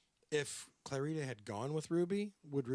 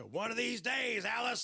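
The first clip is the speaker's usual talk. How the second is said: shouting; 9 semitones higher than usual. Retold or imitated. Quoting Honeymooners catchphrase.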